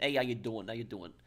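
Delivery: put-on New Yorker greeting; casual New York street accent. Shown as a demonstration. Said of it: "do a New York accent".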